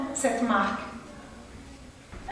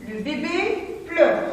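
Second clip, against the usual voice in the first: higher, slow reading, stress on bébé; expressive reading; 4 semitones higher, slower than usual. Shown as a demonstration. Teacher reading an example sentence to pupils, higher and slow. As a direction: lift bébé high and read slowly. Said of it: "La phrase suivante".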